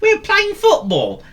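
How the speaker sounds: high, loud friendly call; a dog calls his mate over. Acted. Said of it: "called Willy".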